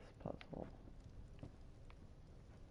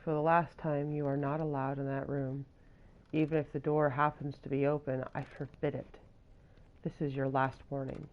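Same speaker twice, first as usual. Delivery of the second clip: stern scolding; 5 dB louder than usual. Acted. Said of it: "sounds kinda mean".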